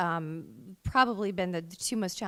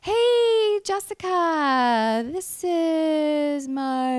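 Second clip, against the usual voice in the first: very slow, drawn-out voice; slow motion; 6 semitones higher, 6 dB louder, much slower than usual. Retold or imitated. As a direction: stretch every word like slow motion. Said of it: "this was all in slow motion".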